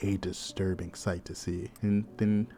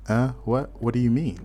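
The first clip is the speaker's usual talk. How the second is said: confused; 3 semitones higher, 4 dB louder than usual. Acted. Main character questioning a cryptic stranger, confused. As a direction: ask it in puzzled confusion. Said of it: "our guy's just confused".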